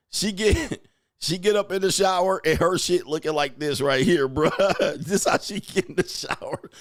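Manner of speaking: talking through real laughter; laughing. Real, not acted. Host describing a wife in the shower, laughing. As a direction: keep describing it while cracking up.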